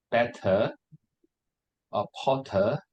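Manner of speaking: "better" and "Potter" with crisp British T's; clear T sound. Shown as a demonstration. Teacher showing British English features, clear T in "better", "Potter". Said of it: "the T sound very clearly".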